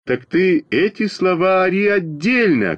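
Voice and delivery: high, indignant retort; acted yell across the class; shouting back. A narrator's reading. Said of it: "крикнул я Веньке".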